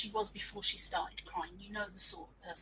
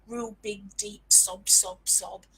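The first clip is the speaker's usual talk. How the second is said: mock sob; 3 semitones lower, 5 dB louder, slower than usual. Shown as a demonstration. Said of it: "that kind of".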